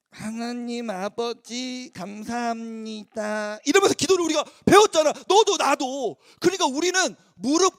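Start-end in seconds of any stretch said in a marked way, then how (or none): 0.1-3.6 very slow, soft reverent prayer; slow childlike prayer. Shown as a demonstration. Preacher showing how children are taught to pray, very slow. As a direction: drag each word like a child praying.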